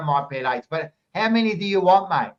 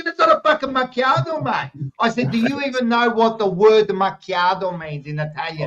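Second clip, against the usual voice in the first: raised pitch, exasperated correction; indignant retold argument; 5 semitones higher than usual. Customer arguing with server over a macchiato, indignant. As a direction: dispute it hotly, replaying the row.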